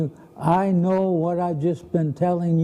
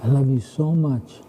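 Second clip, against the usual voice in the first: tender; 2 semitones lower than usual. Retold or imitated. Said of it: "look her straight in the face and say".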